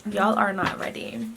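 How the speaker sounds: half-whispered mock American accent; badly faked American, hushed and airless. Vlogger teasing her scared friend, hushed fake American accent. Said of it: "This accent".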